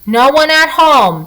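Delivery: put-on boy shouts at the trolls outside the door; shouting. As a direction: shout at the knocker to go away. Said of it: "the boy from Finnmark shouted".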